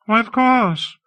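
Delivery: high, lilting surprise; as if it were obvious; surprised. A narrator's reading. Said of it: "Hawke seemed surprised".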